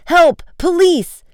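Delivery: high, loud cry for help; shouted. A narrator's reading. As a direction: call urgently for the police. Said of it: "shouted Frank".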